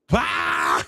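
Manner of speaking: a short retold burp, "Bah!"; mock belch. Teller mimics a belch to mock the drunk man. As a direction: let a fake belch out, Bah. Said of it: "I let out a, a belch".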